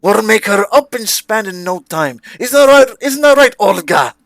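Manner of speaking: high, loud "isn't that right"; rally the assistant with glee; cheerful old toymaker. Acted. Toymaker seeks his assistant's agreement, high and loud.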